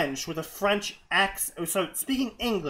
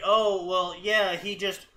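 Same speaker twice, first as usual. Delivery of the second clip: mock author excuse; slower than usual. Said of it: "be like".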